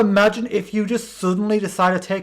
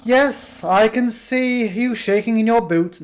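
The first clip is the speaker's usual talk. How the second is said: lightly voiced Papyrus. Voicing Papyrus in a game.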